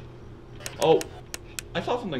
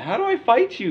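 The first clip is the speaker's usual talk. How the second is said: yelled; 10 semitones higher, 8 dB louder than usual. Real, not acted. Loud take of the same question.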